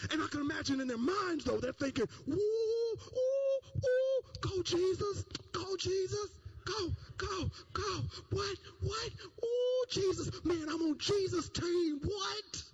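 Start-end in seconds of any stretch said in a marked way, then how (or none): 2.3-12.6 excited cheering. Retold or imitated. Disciple in the crowd cheering Jesus on, high and giddy. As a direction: cheer him on like a fan in the stands.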